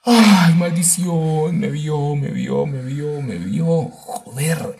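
loud, high panicked yelling. Real, not acted. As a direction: cry out in alarm. Monster spotted him. (voz de pánico)

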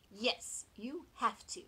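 retort. Acted. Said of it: "they retorted".

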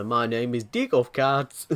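put-on South African accent. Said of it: "In a very racist South African accent".

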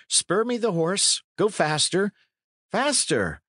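high-pitched urging; acted hurry, high but not shouted; urgent command. A narrator's reading. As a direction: spur a rider on urgently. Urging fleeing companion to ride on.

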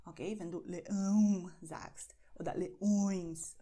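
leão and leões with nasal vowels, air through the nose; leão and leões hushed, nasal and breathy. Shown as a demonstration. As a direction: let leão and leões buzz in the nose, whispered. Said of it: "da ist ein bisschen eine Vibration".

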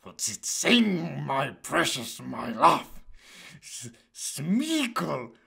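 slow, drawn-out creature voice with whispered hushes; Gollum. Pretend. Creature talking to himself about being found out, fretful impression. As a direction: hush and fret, stretching the words. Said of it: "Gollum voice for Delphador".

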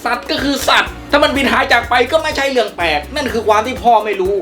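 loud, angry pushback at the father; heated argument. Acted. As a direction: shout back in your own defence. Son argues back at father. (ตะโกนเถียงพ่ออย่างโมโห)

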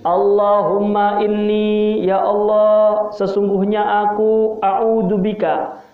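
slow, solemn prayer recitation; recited prayer. Acted. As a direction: intone the Arabic prayer slowly, line by line. Preacher opens by reciting a prayer.

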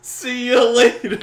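high, very loud put-on farewell; hammed-up scammer calling goodbye; mock scammer's goodbye.

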